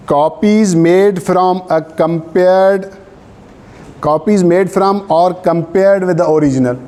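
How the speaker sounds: reads the law out word by word, very slow; measured legal dictation; slow dictation reading. Acted. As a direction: dictate so students can write it down. Dictating statute text to class.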